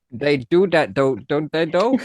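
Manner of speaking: "They do that, though" copied as "dey do dat, dough"; imitated Scouse "don't dey dough"; all Ds. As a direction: make every th in They, that, though a D. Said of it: "you say it with all Ds".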